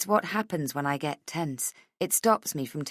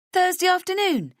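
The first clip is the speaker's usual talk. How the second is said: shocked; 6 dB louder than usual. A narrator's reading. Shocked at the press date.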